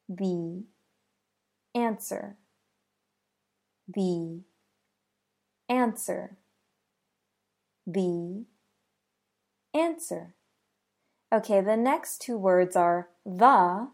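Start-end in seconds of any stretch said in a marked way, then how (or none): 0.1-10.3 "The answer" with "The" said as "thee"; thee before a vowel. Shown as a demonstration. Teacher modeling the phrase three times, "The" as thee. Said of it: "And that should sound like this".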